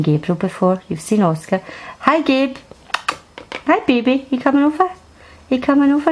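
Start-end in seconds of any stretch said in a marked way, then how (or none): 2.0-6.1 high, sweet coaxing voice to a shy cat. Real, not acted. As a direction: coax the cat over in a high sing-song.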